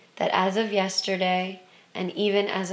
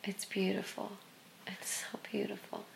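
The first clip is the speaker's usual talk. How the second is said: hushed whisper; 13 dB quieter than usual. Real, not acted. Awed reflection on tears.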